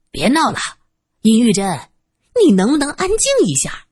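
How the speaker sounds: the director has had enough; irritated rebuke. Acted. Director 苍柏 tells 尹玉珍 to stop, irritated. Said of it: "苍柏在一旁气得不行".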